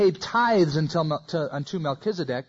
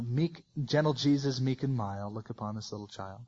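mock sweet; 5 semitones lower, 7 dB quieter than usual. Mocking the soft Jesus image.

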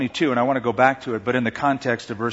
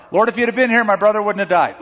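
higher, louder anguished plea; pouring out the heart; 6 semitones higher, 4 dB louder, faster than usual. Retold or imitated. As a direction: pour it all out. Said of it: "Here's the pouring out of the heart".

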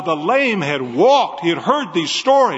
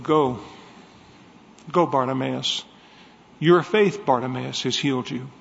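gentle blessing; 3 semitones lower than usual. Acted. Jesus heals Bartimaeus.

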